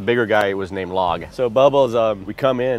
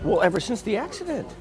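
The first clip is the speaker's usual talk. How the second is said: much higher, scolding aunt voice; aunt's voice; 12 semitones higher than usual. Retold or imitated. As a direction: lecture him like a fussy aunt. Aunt voiced in retold talk.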